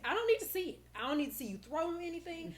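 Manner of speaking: put-on therapist to child. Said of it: "what I tell, like, my, my clients".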